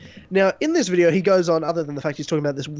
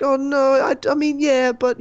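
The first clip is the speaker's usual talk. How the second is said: put-on girlfriend's voice; 7 semitones higher, 4 dB louder than usual. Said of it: "She's like".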